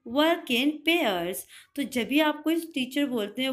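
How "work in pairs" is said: slow teacher model. Shown as a demonstration. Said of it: "तो teacher बोलेंगे".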